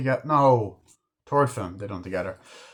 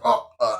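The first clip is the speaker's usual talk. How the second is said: stabbing noises; 6 semitones higher, 4 dB louder than usual. Retold or imitated. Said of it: "they stab him with a screwdriver".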